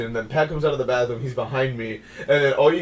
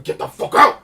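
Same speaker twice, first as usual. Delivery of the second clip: retold yell; 8 dB louder than usual. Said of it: "he starts yelling".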